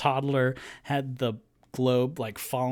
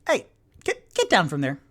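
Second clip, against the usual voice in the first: calling out; 5 semitones higher, 6 dB louder, faster than usual. Acted. Mother scolding flying child.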